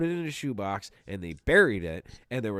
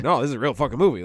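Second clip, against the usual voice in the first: incredulous outburst; 2 semitones higher, 8 dB louder, faster than usual. Pretend. Imagined disbelieving viewer's reaction.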